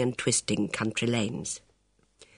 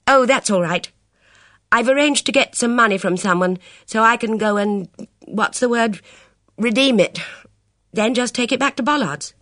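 put-on young woman voice; 8 semitones higher, 5 dB louder than usual. Elvira voiced.

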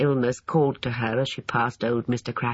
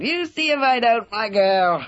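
very high, slow cackling crow; high cracked old man's gloat; 10 semitones higher, 4 dB louder, slower than usual. Acted. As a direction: crow in triumph like a gleeful old man. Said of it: "he crowed".

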